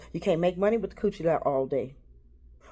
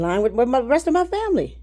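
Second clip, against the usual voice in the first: emotion breaking through; 8 semitones higher, 4 dB louder, faster than usual. Real, not acted. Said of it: "not to let my emotions take over my voice".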